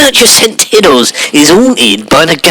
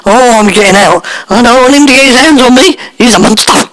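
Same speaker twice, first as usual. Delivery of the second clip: frightened; 5 semitones higher than usual. Acted. Terrified by the fake ghost.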